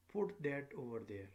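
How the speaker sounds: firm order, tune dropping at the end; falling command. Shown as a demonstration. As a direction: point and drop the voice on "there". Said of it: "have falling intonation".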